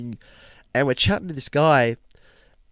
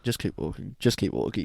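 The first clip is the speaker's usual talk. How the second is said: much softer, lower urgent mutter; muttered urging; 4 semitones lower, 8 dB quieter than usual. Retold or imitated. Boys mutter to each other fleeing Carl, soft and low. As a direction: keep it under your breath.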